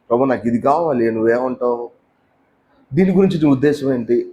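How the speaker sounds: a hint of humble sincere prayer; humble asking. Shown as a demonstration. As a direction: ask God's opinion gently. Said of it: "ఇట్లా అడగాల".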